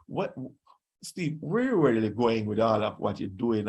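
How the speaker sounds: lightly voiced low questioner; puzzled questioner. Retelling someone's puzzled question to him.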